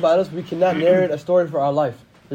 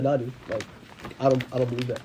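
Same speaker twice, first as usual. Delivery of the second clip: stubborn dismissal; 7 semitones lower, 8 dB quieter than usual. Retold or imitated. Stubborn fool.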